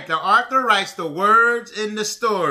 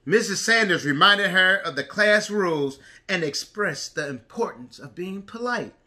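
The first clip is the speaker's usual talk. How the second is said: put-on reading to a toddler. A narrator's reading. Reads picture book to preschoolers.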